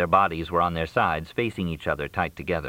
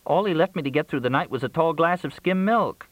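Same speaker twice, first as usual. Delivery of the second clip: high-pitched, plaintive hungry caller; high voice, sorry for herself; Crystal complaining; 10 semitones higher than usual. A narrator's reading. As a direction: complain in a raised character voice.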